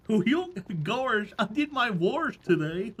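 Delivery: hokey cartoon character with silly chuckles; Goofy. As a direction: do a chuckling, dopey cartoon impression. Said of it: "applying for the position of Goofy".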